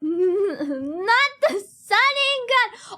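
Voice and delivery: high, slow laugh-wailed not the Sharingan; stretched, laughing wail; laughing protest. Real, not acted. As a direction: laugh while you protest.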